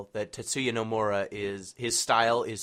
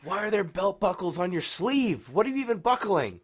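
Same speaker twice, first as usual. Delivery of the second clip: higher and louder, baffled disbelief; incredulous; 9 semitones higher, 4 dB louder than usual. Real, not acted. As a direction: ask it like the outfit makes no sense at all. Baffled by buckled sleeves.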